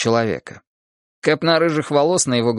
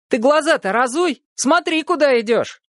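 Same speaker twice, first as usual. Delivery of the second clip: higher urgent yell; shouting warning; 12 semitones higher than usual. A narrator's reading. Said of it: "крикнул и Виталик". (громкий окрик)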